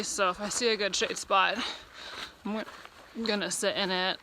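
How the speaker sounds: talking through hiccups; words broken by hiccups. Real, not acted. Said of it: "I have the hiccups right now, which is why I'm talking weird".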